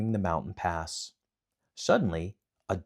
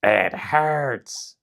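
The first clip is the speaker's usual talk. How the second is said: 1 demons crying out; 6 semitones higher, 7 dB louder than usual. Acted. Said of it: "the demons cried".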